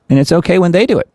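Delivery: mocking, high-pitched sarcastic jab. Real, not acted. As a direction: sneer it out with exaggerated irony. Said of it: "Something we say often on this show".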